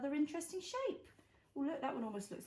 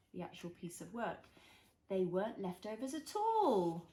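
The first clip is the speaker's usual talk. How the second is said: put-on reading to a toddler; 2 semitones lower than usual. A narrator's reading. Reads picture book to child.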